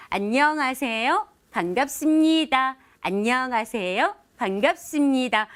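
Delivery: "안녕하세요" slow with a rounded lifting end, "반갑습니다" drawn out gently; round soft greeting. Shown as a demonstration. Speaker leads viewers through a rounded friendly greeting, slow and gentle. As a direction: let the greeting curve like drawing a circle. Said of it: "아주 동글동글하게 얘기하는 거예요".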